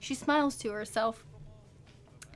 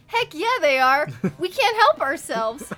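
playing along; 4 semitones higher, 7 dB louder than usual. The speaker playing along as zombie.

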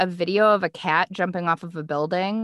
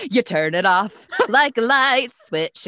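laughing; 4 semitones higher, 5 dB louder than usual. Real, not acted. Laughing while explaining.

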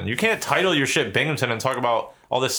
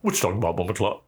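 Jamaican Gary Coleman; 2 semitones lower, faster than usual. Acted. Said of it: "Gary Coleman as a Jamaican person".

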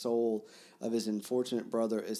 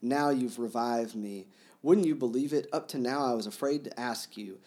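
emotional outburst; 3 semitones higher, 5 dB louder than usual. Acted. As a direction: let the relief spill out. Reading Mitya's emotional farewell.

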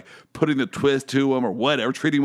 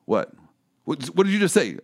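mock indignant judge. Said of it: "the judge said".

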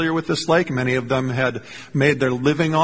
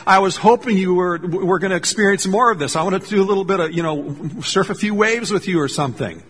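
light, lifted and a little louder, hopeful not irritated; gentle, hopeful Jesus inviting Peter out onto the waves; playful Jesus; 4 semitones higher, 3 dB louder than usual. Retold or imitated. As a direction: tease him kindly, like an invitation to play. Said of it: "I imagine Jesus was saying more like".

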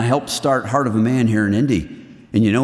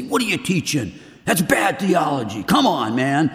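mock attack; 2 semitones higher than usual. Imagined harsh critics attacking.

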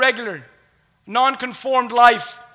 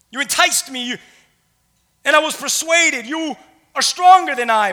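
emphatic plea read aloud; preached scripture reading; 3 semitones higher, 5 dB louder than usual. A narrator's reading. Preacher reads Jeremiah's complaint to God, emphatic. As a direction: project Jeremiah's complaint to the room.

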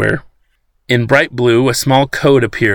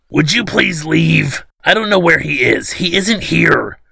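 higher and slow, winded pleading; out of breath; 6 semitones higher than usual. A narrator's reading. Old man pushed into a chair, pleading out of breath. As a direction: gasp the words out after being shoved to the floor. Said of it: "this time being quite out of breath".

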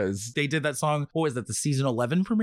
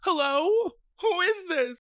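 high, rising inquisitive hello; questioning phone answer. Shown as a demonstration. Host demonstrating his nervous phone greeting. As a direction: ask it like you fear the caller. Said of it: "I say it that way for a very specific reason".

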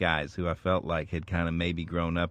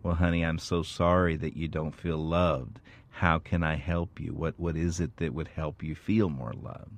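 caring parent. Retold or imitated. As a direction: gently reassure the child. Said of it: "with a real care and concern".

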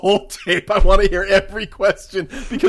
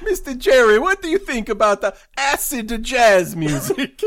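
bad Italian accent; 3 semitones higher than usual. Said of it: "stereotypical bad Italian accent".

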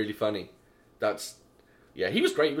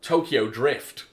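slow, drawn-out Tokyo Drift, a bit louder; excited exclamation; 7 dB louder, much slower than usual. Retold or imitated. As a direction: savour it like a fan. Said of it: "I said".

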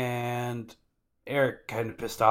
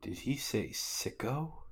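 slow, softer mock-puzzled asking did he say sicko; half-voiced confused Sanji; puzzled question; 2 semitones higher, 8 dB quieter, slower than usual. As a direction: squint at the word as if misheard. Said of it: "And Sanji's like".

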